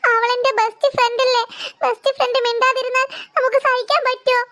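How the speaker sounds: acted tearful confession with sniffly breaths; upset and close to sobbing. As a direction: plead through held-back sobs. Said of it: "ഇവൻ കരയുകയാണ്".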